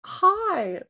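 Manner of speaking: loud, high put-on hello; a badly disguised voice, loud and high; Cheryl. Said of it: "mimicking Cheryl's voice".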